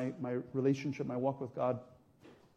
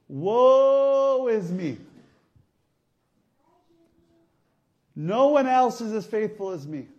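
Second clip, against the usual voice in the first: hammed-up wailing, higher and louder; mock self-pity; 4 semitones higher, 6 dB louder than usual. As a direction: play the martyr, stretching the woe. Mocks Elijah's self-pitying lament.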